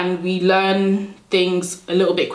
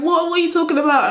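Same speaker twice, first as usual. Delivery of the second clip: imitated bafflement; 10 semitones higher than usual. Baffled classmates acted out.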